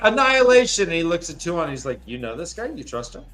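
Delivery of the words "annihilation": a hammed-up booming "Annihilation"; a mock-ominous one-word threat, louder; mock dramatic threat. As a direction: toss it out like a cartoon villain, louder and higher. Quoting a character's threat.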